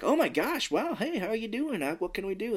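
high, eager, toadying voice; fawning frog guy. Retold or imitated. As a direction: suck up to the rich guest. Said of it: "And he was like".

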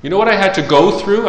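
high-pitched rhetorical demand; emphatic challenge. Acted. Jesus asserts his rights to the scroll, challenging emphatically. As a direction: challenge them with rising questions.

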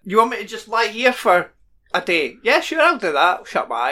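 lightly acted willing actor, lifting on the yes; agreeable actor. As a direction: play an easygoing actor taking the job. Acts out an easygoing actor accepting job.

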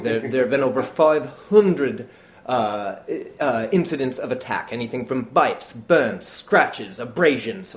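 loud dramatic guide announcing attacks; tour guide voice. Retold or imitated. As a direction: boom it out like a spooky tour guide. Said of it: "she's like".

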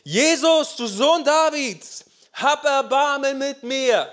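high, loud drawn-out shout; desperate loud plea for mercy; loud cry. A narrator's reading. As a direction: cry out to Jesus at full voice, high and slow. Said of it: "schrie er laut".

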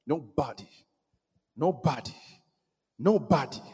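hushed insistence. Real, not acted. Preacher assuring congregation nobody can stop God, hushed insistence. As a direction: drop right down and let each word hang.

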